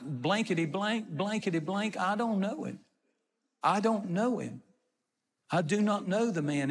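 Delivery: censored cursing, insisting on the denial; mock cursing. Peter cursing as he denies Jesus a third time, mildly heated. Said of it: "It goes from swearing to cursing".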